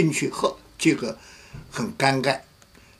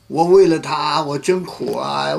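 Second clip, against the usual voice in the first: mock lament; 4 semitones higher, 6 dB louder than usual. Wife lamenting her hard life to the pastor, mock wail. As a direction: drag out her bitterness, half-hammed. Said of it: "就哭起来了".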